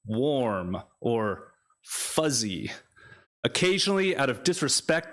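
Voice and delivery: rhythmic spoken-word recital; poetry reading. Acted. Poet reads of regrets to an audience, measured recital. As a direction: recite it in long cadenced phrases, leaning on key words. Reads third poem aloud.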